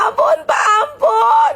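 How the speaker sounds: a hammed-up sob to win Mama over; fake crying plea. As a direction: beg for mercy with put-on tears. Child fakes crying for mercy.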